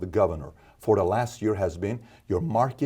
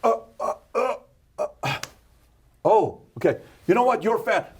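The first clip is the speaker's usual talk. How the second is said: mock heckler; 11 semitones higher than usual. Acted heckler stammering insult.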